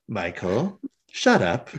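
lightly voiced villainess, pitched low; low mock command with a hint of amusement; Hex. Host as Hex silences Michael, low impression. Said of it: "not a bad, uh, uh, Hex impression".

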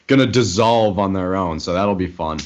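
talking round fresh stitches; careful mouth after oral surgery; after wisdom teeth. Real, not acted. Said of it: "I've got stitches in my mouth".

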